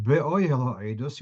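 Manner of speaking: Be'oihel stressed on the oi; Be'oihel with weight on the second-last syllable; penultimate stress. Shown as a demonstration. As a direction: lean on the oi in Be'oihel Ha'edus. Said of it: "the stress is on the penultimate".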